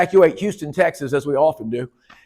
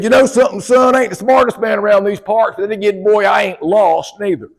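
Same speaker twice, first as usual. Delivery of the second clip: put-on old country man; 3 semitones higher than usual. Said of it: "He said".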